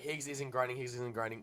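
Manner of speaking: usual speaking voice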